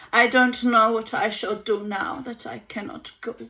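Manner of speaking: hint of a German accent, guttural R's; a touch of German, rolling guttural R's. Baroness complaining about the war, light German accent. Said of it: "her R's grew guttural as she raised her voice".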